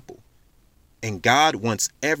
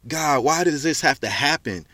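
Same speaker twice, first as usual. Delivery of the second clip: raised, pleading cry of why; anguished cry to God; 3 semitones higher than usual. Retold or imitated.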